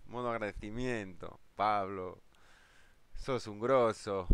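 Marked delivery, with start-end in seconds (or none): 1.6-4.3 slow, drawn-out Argentine Spanish; Argentine accent. Pretend. Streamer thanking viewer Pablo in an Argentine accent. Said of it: "El acento argentino".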